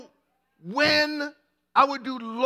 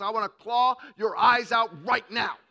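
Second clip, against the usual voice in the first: mock furious shout. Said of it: "She could do that by inflection".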